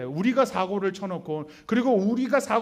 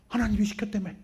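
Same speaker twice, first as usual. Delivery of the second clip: resentful accusation; 4 dB quieter, faster than usual. Retold or imitated. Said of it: "하나님 원망하고 도망가요".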